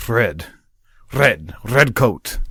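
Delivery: "red" with a French R in front; French-style R. Retold or imitated. Showing how the Senegalese coworker says "red", French-style R. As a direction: roll the R at the start of "red". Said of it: "they say the word red".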